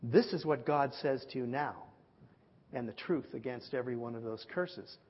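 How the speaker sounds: lightly voiced prophet, measured and grave; mighty man of God. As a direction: declare it solemnly, with a weighty pause. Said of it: "doing my mighty man of God fantasy".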